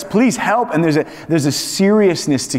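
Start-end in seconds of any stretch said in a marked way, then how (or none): 0.0-0.7 high, urgent plea for help; earnest distressed plea, pitched high; serious distress. Shown as a demonstration. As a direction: beg for help in real trouble. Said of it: "in serious distress".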